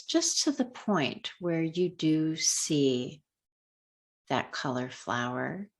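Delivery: unhurried guiding voice with long pauses; calm, measured meditation lead; guided meditation. Real, not acted. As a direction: ease them gently through a color meditation, leaving space between phrases. Leads a color meditation.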